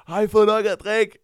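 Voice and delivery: loud, high MC holler; shouting. Retold or imitated. Guest on stage asking the crowd about drinks, shouted. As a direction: yell it out to a packed bar. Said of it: "og så råbte jeg så også".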